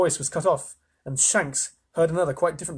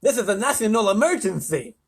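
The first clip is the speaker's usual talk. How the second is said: loud, high, lisped proclamation; urgent lisping leader; lisping President; 8 semitones higher, 5 dB louder than usual. A narrator's reading. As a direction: declare it pompously with a lisp. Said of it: "I'm reading with a lisp now".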